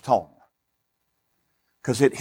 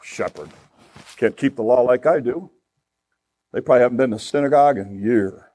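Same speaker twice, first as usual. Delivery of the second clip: lower-pitched, dismissive sneer at shepherds; self-righteous Pharisee disdain; 3 semitones lower than usual. Acted. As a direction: play a Pharisee looking down on shepherds. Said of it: "the Pharisees going".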